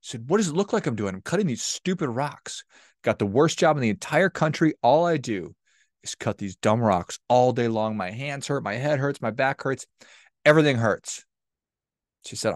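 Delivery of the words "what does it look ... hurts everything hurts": angry stonecutter. Acted. Stonecutter snaps at the curious traveler, angry. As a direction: gripe about the dumb rocks and aching body. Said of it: "very angry".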